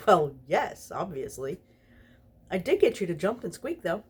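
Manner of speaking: lightly laughing gloat; Crowley gloating through laughter at the angel. Acted. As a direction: speak it through a chuckle. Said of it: "he said through his laughter".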